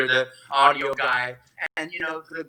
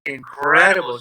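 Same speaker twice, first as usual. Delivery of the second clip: retold amazement; 5 dB louder than usual. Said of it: "I was like".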